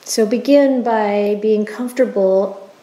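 unhurried, even-toned meditation leader; guided meditation. Acted. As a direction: guide listeners gently through the body, leaving space after each phrase.

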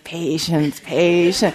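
imitated motherly growl, held in; fierce growl. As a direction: growl the word like a restrained warning. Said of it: "she would just growl this fierceness".

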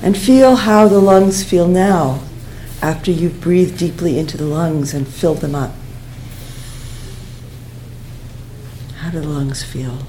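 unhurried breathing-exercise guidance with long pauses; guided meditation. Real, not acted. Teacher guiding students to breathe into the chest, calm meditation voice. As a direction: guide them gently through the breath, leaving space.

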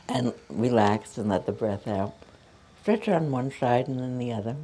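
calm, unhurried cues for a stretch class; yoga instruction. Acted. Yoga teacher guiding her students through arm stretches, calm instruction voice.

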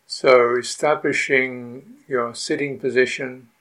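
unhurried meditation guidance with long pauses; guided meditation. Real, not acted. Teacher settling retreatants into awareness of the body, guided meditation. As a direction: guide the sitters patiently, leaving long silences between phrases.

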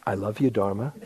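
laughing through it, a bit embarrassed; half-laughing, feeling silly saying it; sheepish laugh. Retold or imitated. Urged by his teacher to say it, sheepish laughing reply. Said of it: "I felt like a complete jerk".

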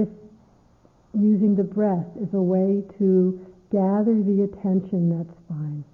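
unhurried meditation guidance with long pauses; guided meditation. Acted. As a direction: ease listeners into stillness, phrase by phrase.

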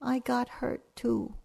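put-on a sulky child wanting attention too; small sad child voice. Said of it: "And she said".

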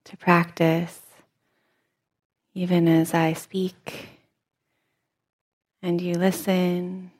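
soft, measured meditation-teacher voice; guided meditation. Real, not acted. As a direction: quietly guide listeners while they keep practicing. Leads seated meditation practice.

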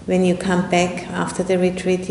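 ordinary talk, nothing marked

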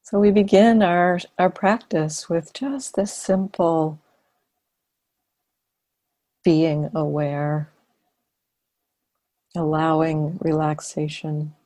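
unhurried meditation guidance with long silences; guided meditation. Acted. Teacher leading students into relaxed awareness, guided meditation. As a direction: guide them gently, phrase by phrase, leaving long pauses.

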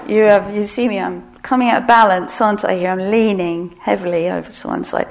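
loud whiny envy; strained envious voice. Retold or imitated. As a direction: protest getting out of balance. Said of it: "you can hear my voice like".

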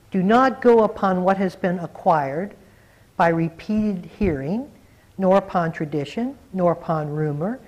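measured recital with each item of the list set apart; scripture recitation. Acted. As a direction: recite it as a solemn list, clause by clause. Recites the Buddha's words from a sutta.

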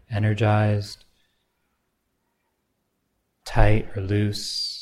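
unhurried meditation guide, long pauses between phrases; guided meditation. Acted. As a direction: gently pose each question, leaving silence after it.

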